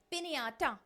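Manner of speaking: पिन्याटा, ny glide stressed; Spanish ñ sound. Shown as a demonstration. Teacher repeating पिन्याटा for students. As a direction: lean on the ny in पिन्याटा. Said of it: "एन के ऊपर हमने थोड़ा stress".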